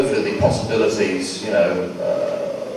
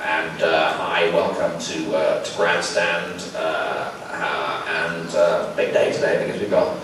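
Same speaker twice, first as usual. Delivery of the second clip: Frank Boff impression; 4 semitones lower, slower than usual. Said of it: "went to the microphone and went".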